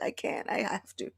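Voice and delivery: Krishna whispering, helpless. Pretend. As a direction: breathe it out, no voice.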